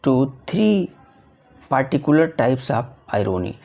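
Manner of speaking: reading the question out slowly and carefully. Shown as a demonstration. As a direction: dictate each English word. Teacher reads the MCQ aloud. (प्रश्न धीरे-धीरे पढ़कर सुनाना)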